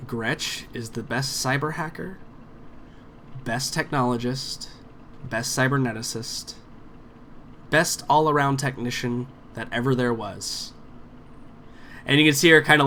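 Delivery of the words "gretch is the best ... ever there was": grudging recitation. Acted. Boomer made to praise Gretch for the drive, grudging recitation. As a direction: recite it dutifully, pausing between each title.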